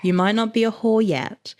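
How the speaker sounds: low, measured narration; book reading aloud. A narrator's reading. Reading a steamy book passage to the co-host, measured narration.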